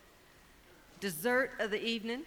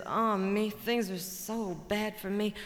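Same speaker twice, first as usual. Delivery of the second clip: mournful buzzard. Acted. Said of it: "Buzzard says".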